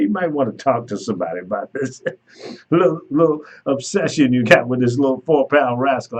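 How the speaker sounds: words breaking into laughter; laughing tease. Real, not acted. Driver teasing the dog-obsessed rider while laughing. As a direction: chuckle through the teasing advice.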